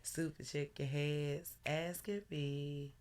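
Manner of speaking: slow, measured recital; poem reading. Acted. Host recites a breakup poem to the live audience, slow and measured. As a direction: read it like a spoken-word poem. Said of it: "I'm gonna read y'all a little poem".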